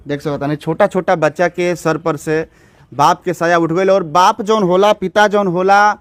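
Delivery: a slightly heightened sombre news read; news report. Acted. Reporter closes the story for viewers, in an earnest news read. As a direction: sum up the loss for viewers, earnestly. Reporter's closing piece to camera.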